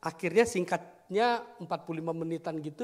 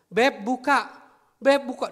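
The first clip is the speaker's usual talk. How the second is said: put-on louder, higher call to the child; 6 semitones higher, 8 dB louder, slower than usual. Father calls child from barred window, loud urgent call. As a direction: re-enact calling through a window.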